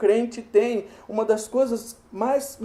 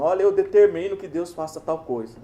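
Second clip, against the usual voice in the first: mock demanding. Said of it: "Eu já vi gente falando".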